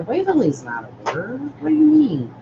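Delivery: retold objection. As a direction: retell it as a baffled, high-pitched challenge. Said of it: "I go".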